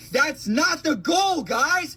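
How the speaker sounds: pitched high in frustration; exasperated protest. Real, not acted. Struggling worker rebuts bootstrap advice, high exasperated protest. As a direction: plead it out high, at wit's end. Frustrated rant about unaffordable living.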